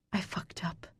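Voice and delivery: very soft whispered confession. A narrator's reading. To Marcus in the rain, a whispered admission. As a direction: confess it in a hush. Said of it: "I whisper".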